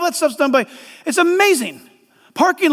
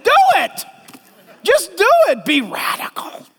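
urgent push; 7 semitones higher than usual. Real, not acted. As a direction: fire them up to act. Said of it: "urging the doubter".

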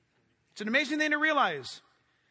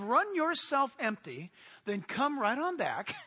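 sarcastic. Acted. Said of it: "I'm being sarcastic right now".

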